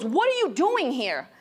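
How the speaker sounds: slow, forceful demand; retold yell. Therapist to patient, slow insistent demand. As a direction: hammer the question home slowly. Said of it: "Why are you yelling at me?".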